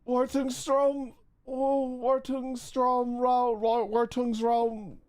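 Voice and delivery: Wartungsstrom, Wartungsraum sounded out slowly, syllable by syllable; sounding out German. Shown as a demonstration. Streamer trying to read the German room name, slow careful sounding out. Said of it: "Say the incorrect German words".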